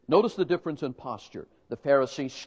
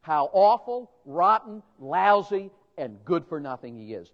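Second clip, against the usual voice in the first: mock indignation. Mocking crowd's disdain.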